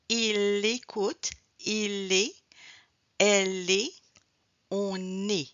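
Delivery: teacher drawing out the joins in "il est, elle est, on est"; liaison. Shown as a demonstration. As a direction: isolate the link in "il écoute", L glued to the vowel. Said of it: "Alors, liaison, link".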